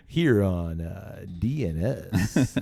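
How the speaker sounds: slow, smooth late-night radio voice; smooth jazz DJ. Acted. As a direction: croon it like a jazz DJ. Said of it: "some smooth jazz".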